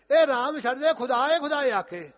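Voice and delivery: loud, high shouted order; fierce demand. Acted. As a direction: thunder the demand at him. King demands renouncing Ram.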